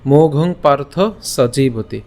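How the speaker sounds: slow, measured Sanskrit verse recitation; deliberate shloka reading, word by word; pronunciation recital. Shown as a demonstration. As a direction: draw out the long syllables for learners. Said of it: "উচ্চারণটা কেমন হচ্ছে".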